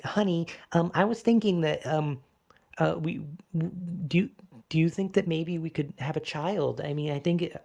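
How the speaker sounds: lightly voiced wife asking gently; imitating wife. Mimicking his wife shyly asking him for a child. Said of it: "And she's like".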